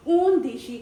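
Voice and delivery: ऊंदीशी said loudly as a model; ऊंदीशी with each syllable given clearly for repeating; loud model word. Shown as a demonstration. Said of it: "उसके बाद आता है ऊंदीशी".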